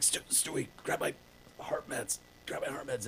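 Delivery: breathless whisper of a dying man; weak dying whisper. Retold or imitated. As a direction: gasp the words out as if fading. Dying therapist asks for pills.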